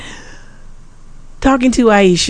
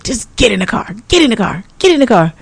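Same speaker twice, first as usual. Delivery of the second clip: impatient daughter; 3 semitones higher, faster than usual. Retold or imitated. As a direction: repeat it, rising with impatience. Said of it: "she was like".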